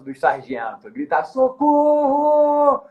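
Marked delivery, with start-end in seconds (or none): 1.2-2.8 high, slow, panicked mock scream; retold desperate scream, pitched way up; desperate scream for help. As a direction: cry for help as if being killed. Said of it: "um grito desesperador".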